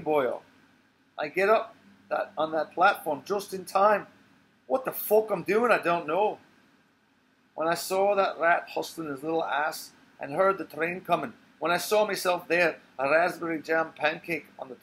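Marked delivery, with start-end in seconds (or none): 1.2-9.4 excited. Acted. Agitated telling of near-death escape.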